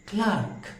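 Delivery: clerk with an open a, like clark. Shown as a demonstration. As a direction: say clerk as clark, rising high. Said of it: "यहाँ एक word मैंने क्लार्क कहा". (क्लर्क को क्लार्क बोलते हुए)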